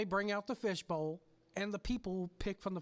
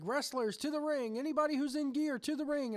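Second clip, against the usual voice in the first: calling out wrestlers; 5 semitones higher than usual. Retold or imitated. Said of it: "Stutz is like".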